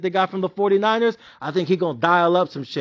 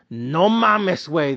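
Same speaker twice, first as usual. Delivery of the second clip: disbelief; much slower than usual. Real, not acted. Reacting to lost bet.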